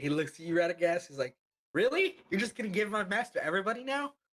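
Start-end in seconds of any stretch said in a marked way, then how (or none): 1.7-4.1 indignant outburst, high-pitched and loud.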